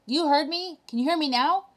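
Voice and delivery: can't believe someone answered; excited. Retold or imitated. Mayor of Whoville thrilled to hear Horton, excited high voice.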